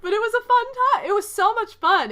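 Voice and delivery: high, loud laughing delivery. Real, not acted. Telling viewers it was fun, laughing and loud. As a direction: bubble over with laughter.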